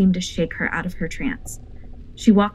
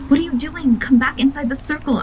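much higher, louder frightened call; frightened cry; 8 semitones higher, 5 dB louder than usual. A narrator's reading. Narrator calls Lupita back into the circle, frightened. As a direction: shout her back to safety in alarm. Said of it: "I cried".

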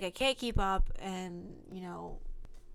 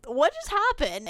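higher, loud bewildered question; reliving being stunned, higher and louder; stunned disbelief; 8 semitones higher, 4 dB louder than usual. Retold or imitated. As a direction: replay the moment of shock.

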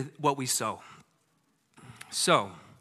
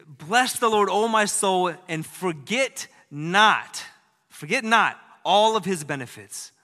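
louder, emphatic psalm recital; bold recitation; 2 semitones higher, 5 dB louder than usual. Retold or imitated. The Bible teaching lady reciting Psalm 103 to the children, louder and emphatic. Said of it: "She said".

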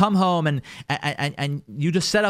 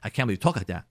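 much lower and softer, stunned and hushed; shocked disbelief; 11 semitones lower, 7 dB quieter than usual. Retold or imitated. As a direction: gasp it out as if the words hit you like a bomb. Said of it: "Atom bomb means like".

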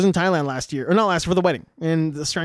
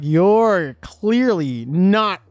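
slow, drawn-out mock British accent; imitated British cousin; slower than usual. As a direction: stretch each word in an imitated UK accent. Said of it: "introduces me to this cousin of his".

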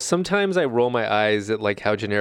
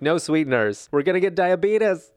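playful Tori impression; 6 semitones higher than usual. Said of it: "She was like".

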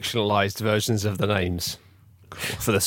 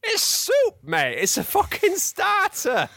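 shouting captain; slower than usual. Acted. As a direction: bellow it like a manic captain. Captain character speaking.

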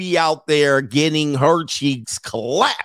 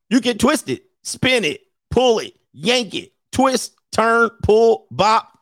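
toy announcer voice; 6 semitones higher than usual. Retold or imitated. Imitating Bop It toy.

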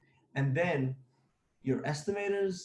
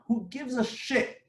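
fired-up rant. Real, not acted. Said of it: "now I'm gonna talk like this".

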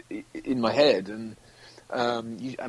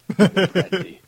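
Michael Caine; 8 dB louder than usual. Acted. Guest finishing old-versus-young routine, throaty aged star impression. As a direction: crack upward, then sink into the throat. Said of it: "young versus old Michael Caine".

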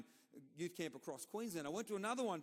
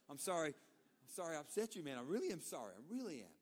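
sincere apology. Retold or imitated. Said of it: "Like, genuinely".

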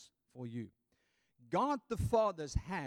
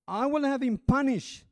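ruler's pronouncement; 10 semitones higher, 9 dB louder than usual. Acted. Herod's reply to the crowd.

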